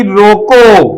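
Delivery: रोको said slowly as a complete command; pause after रोको. Shown as a demonstration. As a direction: set रोको apart, then stop. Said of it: "बड़े ध्यान से देखिएगा".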